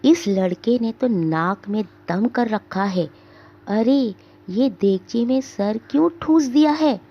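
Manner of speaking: mild angry scolding through clenched teeth; a touch of exasperated anger; through gritted teeth. Acted. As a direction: grind out the words at a naughty boy. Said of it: "नसीबुन दांत पीसती हुई".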